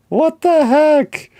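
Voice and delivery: high, slow, drawn-out disbelief; exasperated. Real, not acted. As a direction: stretch it out in disbelief. Exasperated rant about comic scheduling.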